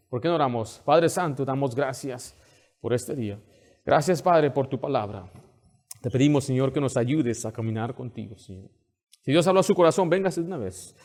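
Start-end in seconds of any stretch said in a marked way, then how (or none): 0.8-8.7 earnest pastoral prayer. Acted. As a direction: pray over the congregation. Leads congregation in prayer.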